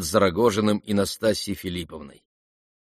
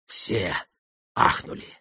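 usual speaking voice

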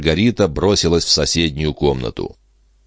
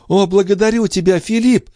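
благодарю pitched very high and stressed; emphatic on every word; 3 dB louder than usual. A narrator's reading. Andrea interrupting her brother, stressing благодарю and every word. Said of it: "подчёркивая голосом каждое слово".

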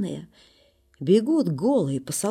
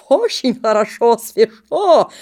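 brisk cold delight; 4 semitones higher, 7 dB louder, slower than usual. Acted. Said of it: "тоже говорит".

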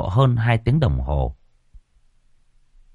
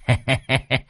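higher-pitched teasing chuckle; acted chuckle; 5 semitones higher than usual. Thầy Long greets cô Thao, acted chuckle. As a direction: chuckle in a quick string of pulses.

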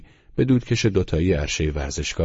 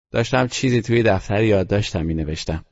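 put-on boy Teddy's voice; 5 semitones higher, 4 dB louder than usual. Teddy's voice in the story.

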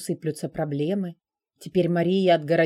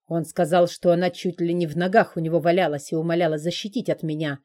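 exclaimed in hurt frustration. Acted. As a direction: blurt it out, stung and bitter. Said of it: "с досадой и болью в голосе воскликнул".

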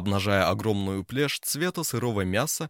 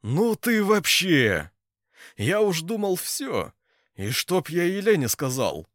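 high, loud, tearful-happy outburst; overjoyed; 9 semitones higher, 5 dB louder, slower than usual. A narrator's reading. Ponchik gushes with relief to his friend Oleg. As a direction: gush with relief at your friend.

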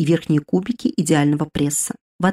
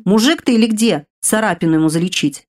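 grumbling; 3 semitones higher than usual. Acted. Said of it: "проворчал он".

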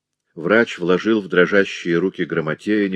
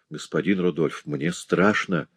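trembling voice; 2 semitones lower, 3 dB quieter than usual. Acted. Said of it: "дрожащим голосом".

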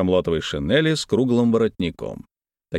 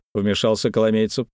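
plain reading voice

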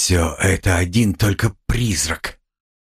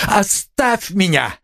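higher, slow, desperate plea; anguished cry; 9 semitones higher, slower than usual. A narrator's reading. Raskolnikov begging Sonya to leave him, anguished cry. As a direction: cry it out in anguish, pitch climbing. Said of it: "вскричал он вдруг в судорожной тоске".

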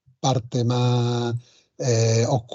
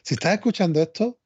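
youtuber voice; 4 semitones higher than usual. Pretend. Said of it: "lo dicen los youtubers".

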